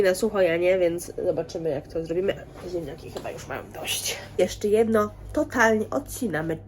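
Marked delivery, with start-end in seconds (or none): 2.7-4.2 a soft whispered aside. Real, not acted. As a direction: breathe it out as a quiet aside. Aside while cooking.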